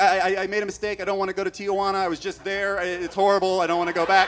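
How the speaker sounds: high, stammering plea; acted-out desperate begging; panicked pleading. Driver begging border patrol not to send him back, panicked.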